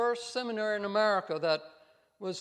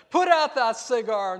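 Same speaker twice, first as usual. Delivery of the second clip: loud, higher-pitched scolding command; called-out order; 4 semitones higher, 10 dB louder than usual. Retold or imitated. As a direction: shout it like an outraged school president. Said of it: "He called out to a man".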